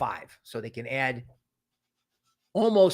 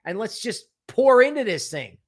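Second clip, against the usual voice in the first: eager hype; 5 semitones higher than usual. Retold or imitated. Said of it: "The eighteen-year-old's like".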